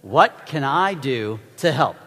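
a full-voiced group repeat; nice and loud. Shown as a demonstration. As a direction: say it out loud and clear, slowly. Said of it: "Nice and loud".

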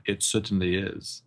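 slow imitation British accent. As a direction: answer unhurriedly in a put-on British accent. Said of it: "using his natural accent's like".

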